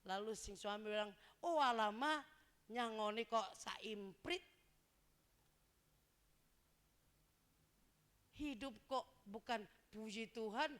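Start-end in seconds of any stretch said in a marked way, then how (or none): 1.4-10.7 husband complaining loudly to his wife about allowance; loud grumbling husband. Acted. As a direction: snap back at the wife. Acted husband retorts to wife.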